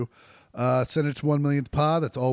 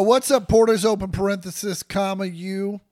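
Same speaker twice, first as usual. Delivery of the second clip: dictating; 6 semitones higher, 6 dB louder than usual. Shown as a demonstration. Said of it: "It says".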